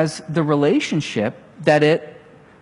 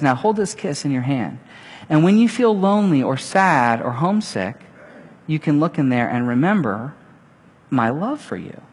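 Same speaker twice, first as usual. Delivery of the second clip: put-on softer, gentle mother raccoon reassuring her baby; tender mother; 4 semitones lower, 3 dB quieter than usual. A mother raccoon soothing her scared baby, softly. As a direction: hush it like a mother sending her child off.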